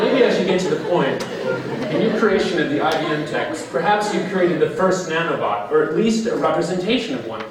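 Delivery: lightly voiced interviewee; Don voice. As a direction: slip into Don's voice. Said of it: "I was doing the Don voice there".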